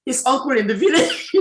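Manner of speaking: laughing through the words, voice breaking up. Real, not acted. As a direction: let the laugh spill into the phrase. Retelling a funny teacher story.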